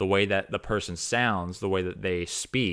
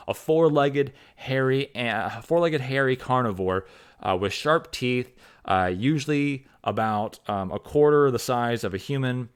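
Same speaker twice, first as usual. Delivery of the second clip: slightly raised, emphatic reading-out voice; mock glossary reading; 4 semitones higher than usual. Author reads out a glossary entry for dog, mock glossary reading. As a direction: read out a definition as if from a reference book. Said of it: "you look up in the glossary".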